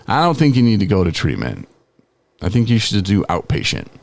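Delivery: mock doting voice, high then settling; gushing intake lady. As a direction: imitate an over-impressed lady cooing praise. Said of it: "And she's like".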